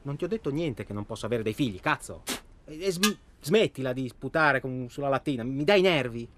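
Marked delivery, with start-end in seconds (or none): 2.7-6.3 louder, rising annoyance; irritated. Acted. Scolding Toto for spitting on the can, irritated. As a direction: tell him off sharply.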